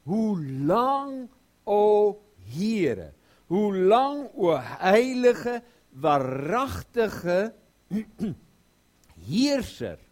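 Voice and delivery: loud, high, drawn-out plea to God; anguished loud cry of how long. Acted. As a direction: cry it out like the martyrs, slow and pleading. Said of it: "Die roepen".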